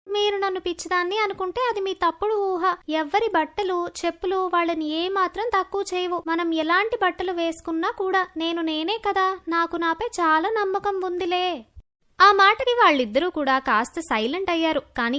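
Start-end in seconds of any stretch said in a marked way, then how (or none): 0.1-11.6 lightly voiced girl standing her ground; a slightly raised girl's voice, composed and confident; self-assured schoolgirl. Sumana answers bullies confidently.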